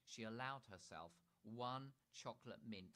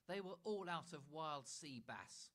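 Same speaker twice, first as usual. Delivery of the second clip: higher, louder, slow mock protest; protesting Dad; 7 semitones higher, 5 dB louder, slower than usual. Dad excusing himself to Mother, slow mild protest. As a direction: plead innocence with a hidden wink. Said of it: "protested Dad".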